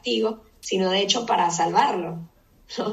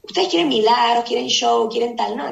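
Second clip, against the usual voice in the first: mock rebuke; 2 semitones higher, 6 dB louder than usual. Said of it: "le dice".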